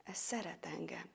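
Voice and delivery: very soft, low, awed; hushed realisation. A narrator's reading. Man realising the monster loves him, hushed. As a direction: let the discovery sink in, barely voiced.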